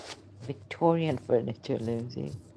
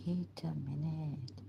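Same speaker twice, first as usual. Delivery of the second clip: whisper; 6 dB quieter than usual. Real, not acted. Whispers while recalling a memory.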